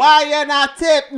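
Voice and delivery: high, loud mock Asian accent. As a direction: demand a tip in a put-on Asian accent. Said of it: "Can you do an Asian voice?".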